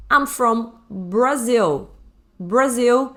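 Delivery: I'm from Brazil stretched out slowly; slow model sentence. Shown as a demonstration. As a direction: spell it out slowly for learners. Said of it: "é pronunciado assim". (bem devagar, com Brazil claro)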